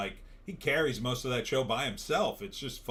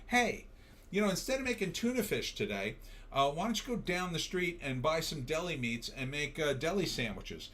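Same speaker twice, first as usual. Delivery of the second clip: mock crew pitch; 4 semitones higher than usual. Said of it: "you say to the craft services person".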